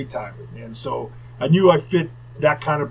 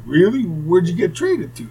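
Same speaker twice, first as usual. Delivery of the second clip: mildly incredulous, higher and louder; surprised question; 4 semitones higher, 4 dB louder than usual. Retold or imitated. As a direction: retell her surprise, pitch jumping up. Retells wife's surprised reaction.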